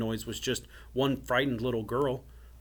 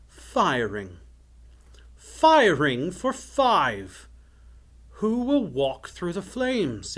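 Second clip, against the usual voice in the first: gloating villain, swooping high and drawn out; sinister fire wizard; 6 semitones higher, 8 dB louder, slower than usual. A narrator's reading. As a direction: build from musing to a loud, slow proclamation. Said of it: "The tall fire wizard's voice grew sinister".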